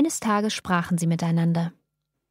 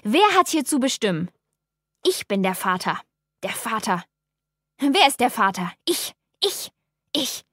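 furious shouting; 2 semitones higher than usual. A narrator's reading. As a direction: bellow it with all his might. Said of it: "schrie er mit aller Kraft".

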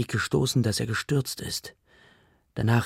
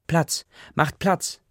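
high, slow call to clear the crowd; slow raised call of make way; shouting; 7 semitones higher, 4 dB louder, much slower than usual. Acted. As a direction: push through the crowd calling out slowly. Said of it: "schreit sie unsere Nachbarn an".

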